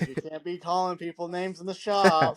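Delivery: mock scolding. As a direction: imitate a boss telling off the crew. Boss scolding the shop, retold.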